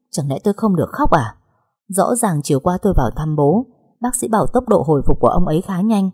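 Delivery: plain reading voice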